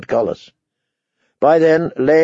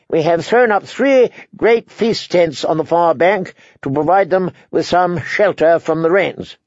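lightly voiced higher-pitched envoy; courteous envoy; 5 semitones higher than usual. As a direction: make a formal welcome, pitched a little higher. Frey envoy's speech in story.

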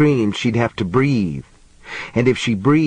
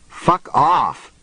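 startled cry; 5 semitones higher than usual. A narrator's reading. Woman batting a rat off her neck, crying out. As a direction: cry it out sharply, pitch jumping up. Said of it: "she cried".

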